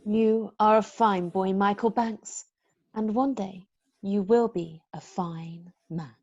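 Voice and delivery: gentle and kind. Acted. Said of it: "when you talk like that".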